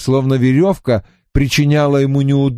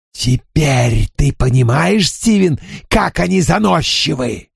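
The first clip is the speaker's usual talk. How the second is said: high indignant outburst; indignant outcry; 4 semitones higher than usual. Acted. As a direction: cry out in bitter indignation. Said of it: "вскричал джентльмен".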